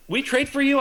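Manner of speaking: high, startled double take; incredulous teammate; surprised question. Retold or imitated. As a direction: sound caught off guard by the news. Teammate surprised at new arrival.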